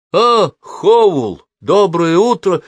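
a touch of a defeated greeting; crushed voice. A narrator's reading. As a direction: sound crushed. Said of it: "убитым голосом произнёс Майкл". (убитым голосом)

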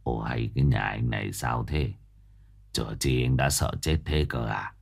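low, soft, scolding master; frowning master. Acted. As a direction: chide him in a low grumble. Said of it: "Thầy Phụng cau mày".

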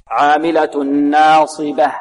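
slow "عاملة ناصبة" ending in a light b and audible h; stretched recital with a clear final ha in "ناصبة"; thin ba, clear ha. Shown as a demonstration. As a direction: finish "ناصبة" on a distinct breathed h. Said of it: "والباء مرقة والهاء لابد من إيضاحها".

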